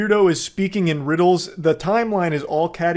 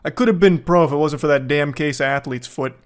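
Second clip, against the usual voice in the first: louder, puffed-up has-been bragging; washed-up loser voice; 3 dB louder than usual. Retold or imitated. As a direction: brag like a washed-up old jock. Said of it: "some washed up loser who's like".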